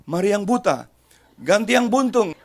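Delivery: loud, high hammed-up call to the congregation; mock announcement. Mock worship leader calling the maimed congregation forward, loud.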